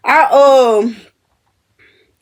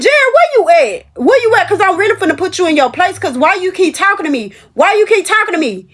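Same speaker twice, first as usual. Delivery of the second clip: mock call out; 5 semitones higher than usual. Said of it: "I said".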